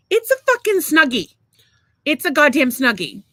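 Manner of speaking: high, loud incredulous outburst; exasperated outburst. Retold or imitated. Storyteller revealing the blanket is a Snuggie, exasperated.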